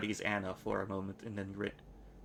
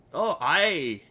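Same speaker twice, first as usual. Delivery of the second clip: put-on louder, higher, a brash girl snapping back; loud retort; 4 semitones higher, 4 dB louder than usual. Anna snapping back at the nameless one, louder. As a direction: hit back hard, faster at the end.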